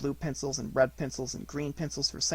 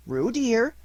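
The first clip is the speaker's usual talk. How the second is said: reproachful; 9 semitones higher, 6 dB louder than usual. A narrator's reading. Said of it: "said Kanga reproachfully".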